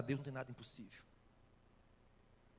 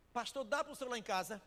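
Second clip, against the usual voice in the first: higher and louder, pressing hard on "dá"; urgent plea; 8 semitones higher, 5 dB louder than usual. Retold or imitated. Wife urgently begging the pastor to come, louder. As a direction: push "dá" up and loud, as if begging him to come. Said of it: "Pastor, quer falar com o senhor".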